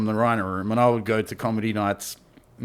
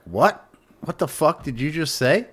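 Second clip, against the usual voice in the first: retold indignant challenge; 5 semitones higher than usual. Retold comic confronting heckler.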